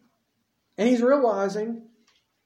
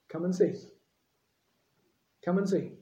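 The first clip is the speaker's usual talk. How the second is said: simple invitation; 4 dB quieter, faster than usual. Retold or imitated. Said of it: "what's Jesus' response".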